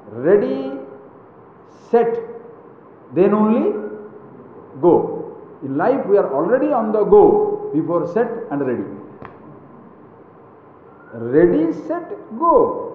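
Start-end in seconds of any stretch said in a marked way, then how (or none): 0.1-5.4 hint of a race starter, spaced out; lightly played starting call, each word separate; race starter's call. Shown as a demonstration. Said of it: "Hundred meter dash". 11.1-12.9 quicker starting call, lifted on "go"; hint of a race starter; race starter's call. Shown as a demonstration. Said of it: "Hundred meter dash".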